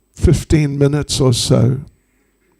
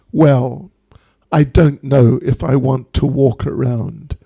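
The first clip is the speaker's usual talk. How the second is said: measured, unhurried reluctance; playing it cool. Snake doctor refusing a desperate plea, playing it cool. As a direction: decline coolly, with careful composure. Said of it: "plays it cool".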